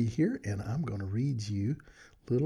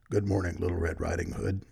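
a lightly lowered, gruff wolf greeting; 3 semitones lower than usual. Acted. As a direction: sound like a sly wolf, a bit lower. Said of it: "a gruff voice said".

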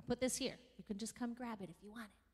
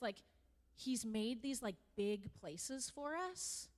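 put-on child's voice; 3 semitones higher, slower than usual. A pupil describing God's picture to her teacher, lightly voiced. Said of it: "And she just goes".

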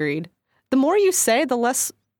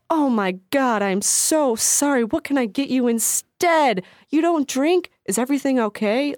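mock gushing apology; 4 semitones higher than usual.

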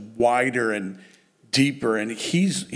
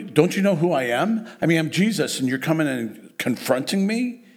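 raised pitch, affronted challenge; mock indignation; 5 semitones higher than usual. Jesus answering those confronting him, mock indignant. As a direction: act lightly affronted, questioning their nerve.

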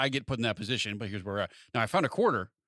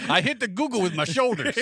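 words pushed out through a laugh, higher; 8 semitones higher, 4 dB louder than usual. Real, not acted. Cohost joking about the shoulder mishap, laughing. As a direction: laugh through the joke line.

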